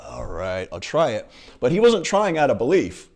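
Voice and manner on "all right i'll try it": low, grudging half-hearted reply; reluctant. Retold or imitated. Luke grudgingly answering Yoda, low and reluctant. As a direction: sound like you don't believe it.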